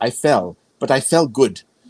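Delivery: put-on very heavy German accent, laid on thick. Quoting a woman in her nineties phoning the family, very German accent. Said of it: "she would say in her very German accent".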